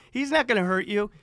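high, very loud mock father's holler; screaming dad. Dad insisting his son will be safe, screaming. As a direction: bellow the reassurance like an Italian screamer. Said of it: "And my dad screams at me".

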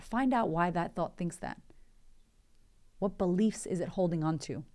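usual speaking voice

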